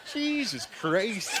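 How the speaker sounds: slow, drawn-out Canadian guy voice; white Canadian accent. Acted. White Canadian guy coming up to you, Canadian accent. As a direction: stretch it out matter-of-factly in a Canadian accent. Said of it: "the most matter-of-fact thing you've ever heard".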